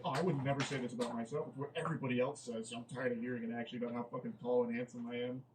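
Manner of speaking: quick, low humblebrag imitation; mock playful boasting. Reader parodying a guy hyping himself up, mock playful. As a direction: rattle off a fake-modest boast. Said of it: "His attempt at being playful".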